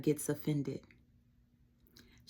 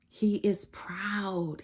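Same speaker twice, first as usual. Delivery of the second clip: whisper; 3 semitones higher, much slower than usual. Real, not acted. Whispered emphasis in sermon.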